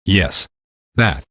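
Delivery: thoughtful, trailing off; pensive. A narrator's reading. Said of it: "she said pensively".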